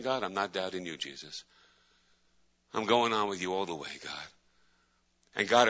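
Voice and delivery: hushed earnest prayer to God. Acted. Pastor praying aloud to God, hushed and earnest.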